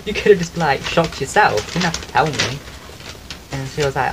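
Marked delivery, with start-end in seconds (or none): 0.0-2.6 mock indignant. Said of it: "I was like".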